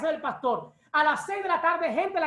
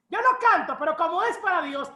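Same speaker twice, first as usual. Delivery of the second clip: mock excuse; 3 dB louder than usual. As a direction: put on a hint of the eager non-singer. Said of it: "gente que dice". (imitación burlona leve)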